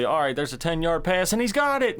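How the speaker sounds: excited call, pitch climbing high; radio play-by-play. Retold or imitated. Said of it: "you could say".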